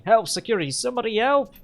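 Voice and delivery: rising to a loud high yell; panicked screaming. Acted. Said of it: "he starts screaming".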